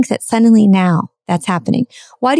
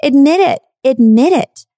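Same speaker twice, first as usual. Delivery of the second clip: insistent demand; 5 semitones higher than usual. Real, not acted. Demanding an admission from people.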